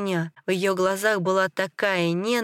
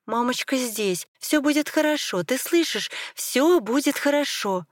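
high, anxious motherly comfort; tender, urgent reassurance; murmured reassurance; 7 semitones higher than usual. A narrator's reading. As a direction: soothe the child in a pitched-up voice. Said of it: "шептала она".

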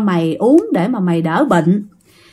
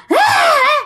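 high spirit wail; possessed wail. Acted. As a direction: cry out as the possessed man. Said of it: "ông hai gào lên".

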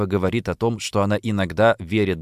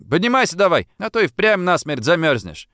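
raised, urging call; 7 semitones higher than usual. A narrator's reading. Boy telling the girl to get up, calling. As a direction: urge them up from a distance. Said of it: "позвал он".

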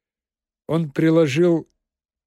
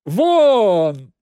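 loud high barked order; shout; 6 semitones higher, 6 dB louder than usual. Acted. Azazello ejecting Magarych, commanding shout. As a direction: throw him out with one shout. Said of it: "и крикнул".

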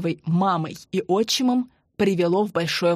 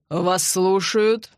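slow, deliberate, louder colonel on the phone; a formal officer picking up the line; stern colonel answering; 4 dB louder, much slower than usual. Acted. Colonel picks up Andrey's call, slow and formal.

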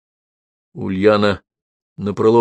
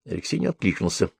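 plain reading voice

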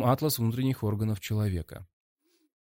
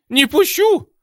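far higher, much louder desperate cry; doomed shout; 12 dB louder, slower than usual. A narrator's reading. Guard behind the door tries to stop Ида, desperate shout. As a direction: yell it as a last hopeless stand. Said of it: "крикнул кто-то обречённым голосом".

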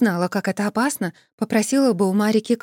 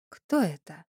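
barely voiced; 2 semitones lower, 6 dB quieter, slower than usual. A narrator's reading. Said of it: "одними губами спросила она".

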